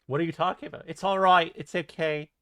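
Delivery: lightly put-on British boy accent; playful mock British boy; little British boy. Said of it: "like a little British boy".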